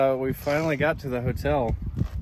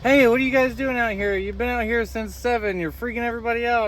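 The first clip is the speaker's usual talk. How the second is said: police officer voice; 10 semitones higher than usual. Retold or imitated. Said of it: "chief of police knocking on the window".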